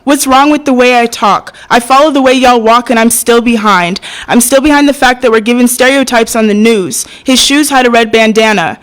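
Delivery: rhythmic, driving protest recitation; spoken-word poem. Acted. Poet challenging the flag on justice for her people, spoken-word delivery. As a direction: recite the pledge pointedly, then press on in verse.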